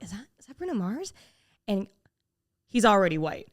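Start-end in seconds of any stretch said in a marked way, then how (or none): 0.0-1.1 hushed question. Retold or imitated. Tapping Cal at the table.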